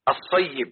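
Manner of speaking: الصيب as "as-say-yib", with doubled ya; correct pronunciation. Shown as a demonstration. Teacher showing the right way to say it, careful pronunciation. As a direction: sound both ya's in الصيب, "as-sayyib". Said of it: "يبقى تنطق النطق الصحيح".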